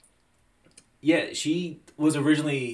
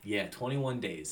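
whispered slowly, in disbelief; hushed astonished whisper; 3 semitones lower, 7 dB quieter, slower than usual. Real, not acted. Stunned repetition.

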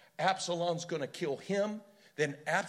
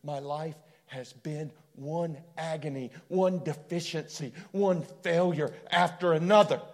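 building lament; 6 dB louder than usual. Retold or imitated. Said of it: "You can almost hear him going".

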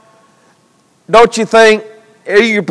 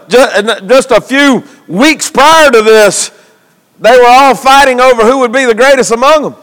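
insistent sermon build-up; preaching; 4 semitones higher than usual. Real, not acted. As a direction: preach towards the disciples' question.

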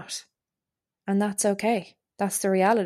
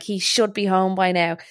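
mock annoyed. Grumbling about partner being late, mildly annoyed. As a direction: play the fed-up partner, only half-seriously. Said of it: "imagine me bulling around the house being like".

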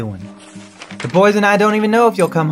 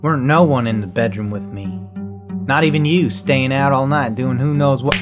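calm turning angry; 2 semitones higher than usual. Acted. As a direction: let it rise from calm to fury. Wife confronted, escalating quarrel.

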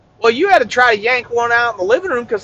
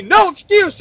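high mock yell; 9 semitones higher, slower than usual. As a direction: yell it like a fanatical gym coach. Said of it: "yelled at me".

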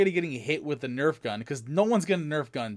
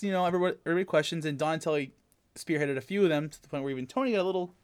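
normal talking voice

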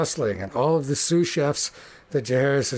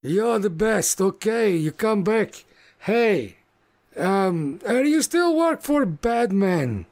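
big jolly orc shouting a welcome; booming orc greeting; 7 semitones higher, slower than usual. Acted. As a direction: boom it out like a huge friendly orc. Orc chef keeps talking to Magma.

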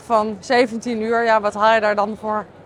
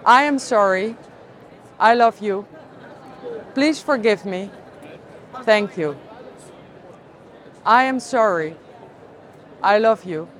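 phrase-by-phrase recitation with long pauses; guided mantra. Real, not acted. Speaker repeats healing phrases for listeners to join, guided mantra. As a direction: recite each phrase, then wait for listeners.

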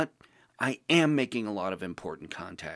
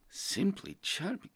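high, slow, mocking repeat of "Simply charming"; mocking echo; 9 semitones higher, 5 dB quieter than usual. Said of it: "You never talked like this before".

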